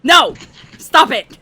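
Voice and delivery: sharp, high shout of protest; two short shouted bursts; loud protest. Real, not acted. Outburst at friends mid-game.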